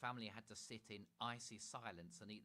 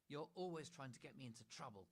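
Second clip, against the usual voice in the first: snapping; 5 semitones higher than usual. Acted. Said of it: "snapped Chloe".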